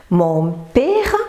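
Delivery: PÈRE with the misspelled vowel, as "pére"; wrong accent. Shown as a demonstration. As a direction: say père with a closed É. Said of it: "l'accent est dans le mauvais sens".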